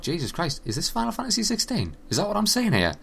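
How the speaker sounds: high, thrilled disbelief; excited. Retold or imitated. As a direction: gasp at a big reveal. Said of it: "genuinely fucking exciting as I thought".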